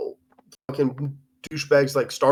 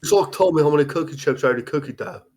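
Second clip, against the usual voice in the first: quick, light London accent imitation; a hint of London accent, a bit quick; 3 semitones higher, faster than usual. Co-host tries the quote in a mild London accent. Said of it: "If you read it in his accent".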